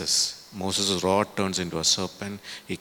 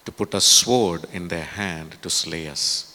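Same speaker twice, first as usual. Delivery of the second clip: dramatic complaint; 6 dB louder than usual. Acted. Reading the Israelites' bitter complaint.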